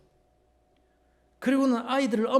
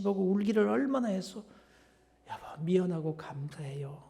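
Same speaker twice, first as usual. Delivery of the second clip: mildly tearful apology. Retold or imitated. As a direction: retell a husband's tender apology to his wife. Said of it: "눈물을 훔치더니 이럽니다".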